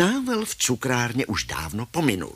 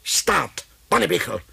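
slow, raised official order; policeman's command; 5 semitones higher, slower than usual. Acted. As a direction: halt the suspect firmly. Policeman halts a fleeing thief. (důrazný policejní povel)

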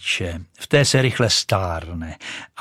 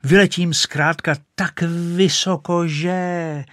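high, loud ecstatic boasting; rising boast; 6 semitones higher, 4 dB louder than usual. Acted. Rocket boasting to nobody as she flies. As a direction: soar higher with every phrase.

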